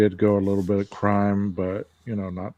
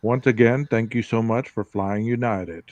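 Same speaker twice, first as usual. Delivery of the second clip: airline pilot announcement. Pretend. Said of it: "is this your pilot voice".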